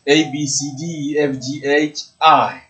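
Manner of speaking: "A, B, C" read as French letter names, one by one; teacher reciting letters for the class; reciting the alphabet. Shown as a demonstration. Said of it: "la lettre de l'alphabet, on dit I".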